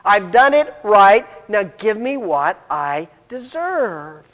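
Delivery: slow, drawn-out demand on "deserve"; lightly acted entitlement; perfect older child. Perfect older child demands his reward, mildly self-righteous. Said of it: "he is the stereotypical perfect older".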